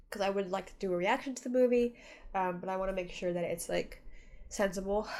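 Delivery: stuffy nose from crying; blocked nose. Real, not acted. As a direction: talk through a blocked nose. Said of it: "I'm so stuffed up, guys".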